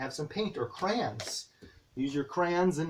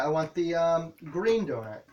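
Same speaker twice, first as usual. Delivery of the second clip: slow, clear instruction. Shown as a demonstration. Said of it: "you can do like that".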